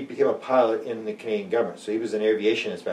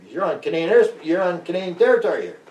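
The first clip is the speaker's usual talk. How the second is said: raised, insistent voice, higher; indignant protest; 8 semitones higher, 4 dB louder than usual. Retold or imitated. Investigator protesting to the soldier, indignant and raised. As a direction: push back hard at the guard. Investigator arguing with armed guard.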